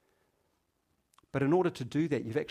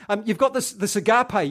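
louder, higher preaching on "agape"; full-force preaching; 9 semitones higher, 12 dB louder than usual. Acted. Preacher driving home the word to the congregation, full-force preaching. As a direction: proclaim "this agape" to the whole room.

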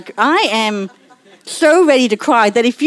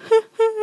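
high mock sobbing breaths; teasing, put-on little sobs; pretend crying; 13 semitones higher than usual. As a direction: imitate someone fake-crying. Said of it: "as if he's pretending to cry".

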